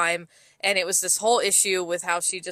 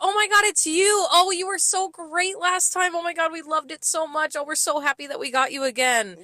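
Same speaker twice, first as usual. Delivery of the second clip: squealing fake delight, pitched way up; gushing customer; 8 semitones higher than usual. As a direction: imitate an over-the-top adoring regular, much higher. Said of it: "and she goes".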